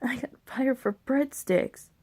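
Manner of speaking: quiet, slow, disbelieving; deflated. Retold or imitated. Telling friends why, quietly stunned. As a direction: let it sink, quiet and slow. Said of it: "it's like".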